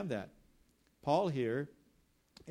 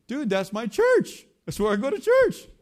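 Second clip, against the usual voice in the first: proud shouting; 9 semitones higher, 14 dB louder than usual. Retold or imitated. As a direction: belt it out to the newcomer, stretching the words. Castaway proudly shouts about his church.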